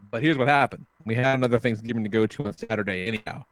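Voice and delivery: ordinary talk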